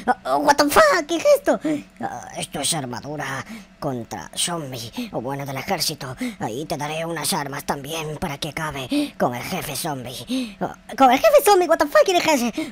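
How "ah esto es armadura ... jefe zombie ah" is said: put-on low, soft old man. Elder handing armor to the player, low and soft. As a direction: speak like a frail elder handing over a gift. NPC explains.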